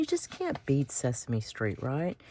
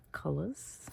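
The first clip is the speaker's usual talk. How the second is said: imitating Lainey; 11 dB quieter than usual. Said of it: "That's how Lainey used to say".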